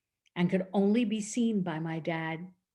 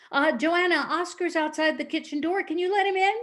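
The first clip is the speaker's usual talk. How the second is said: higher, louder voice of dad; imitating a father calling his child; 8 semitones higher, 4 dB louder than usual. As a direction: call across to your daughter, high and loud. Dad calls to his daughter.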